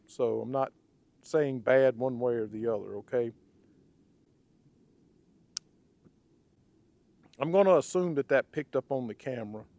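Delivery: hoarse, raspy throat. Real, not acted. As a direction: talk through a rough, raspy voice. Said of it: "Sorry about my raspy voice".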